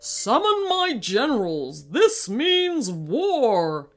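very slow, loud royal decree; declaring war. Acted. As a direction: pronounce war like a furious king. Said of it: "the king".

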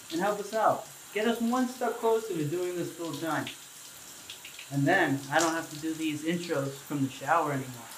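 echoey bathroom voice; speaking under running water; talking in the shower. Real, not acted. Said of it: "It probably sounds like I'm in the shower".

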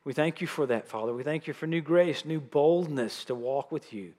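slightly softened, earnest prayer voice. Real, not acted. Preacher asking the Lord to open the congregation's eyes, in prayer. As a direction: lead the room in heartfelt prayer.

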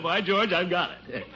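normal talking voice

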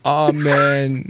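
put-on frail old British man reading a prayer; dying sick man voice. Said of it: "The dying sick man voice".

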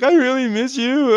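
very high, whiny put-on girlfriend voice; mock pining ex. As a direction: imitate her pining in falsetto. Imitating ex phoning him.

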